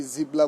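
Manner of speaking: জিবলা said "jibla", with an l; common mispronunciation. Shown as a demonstration. Teacher quoting what many people say, wrong "jibla". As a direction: put an l into the word, জিবলা. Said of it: "এটা বলা যাবে না".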